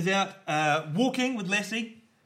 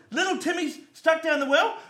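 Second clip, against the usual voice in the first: mock farmer; 12 semitones higher, 4 dB louder than usual. Farmer misreading the cat.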